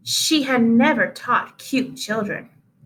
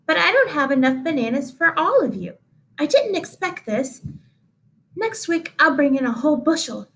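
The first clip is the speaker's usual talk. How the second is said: higher, fluttery teacher voice; fussy teacher; 4 semitones higher than usual. Acted. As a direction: apologize with a flutter. Teacher apologizes about bananas.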